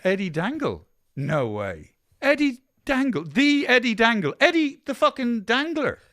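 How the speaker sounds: high, excited fanboy voice; starstruck. Acted. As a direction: gush like a starstruck fan. Local acts starstruck at meeting hangman.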